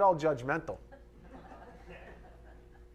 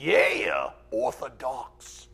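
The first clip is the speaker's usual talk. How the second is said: mock crowd; 3 semitones lower, 5 dB louder, much slower than usual. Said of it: "everybody's like".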